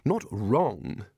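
mildly flustered, high at the start; hurried reply. A narrator's reading. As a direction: stammer a hasty reassurance, starting high. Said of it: "said Ridcully quickly".

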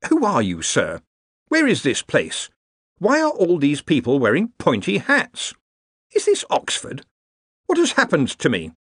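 lost and frightened, demanding answers; desperate bewilderment. Acted. Darwin, stranded among wizards, desperate and rising toward anger. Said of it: "desperation that was shading into anger".

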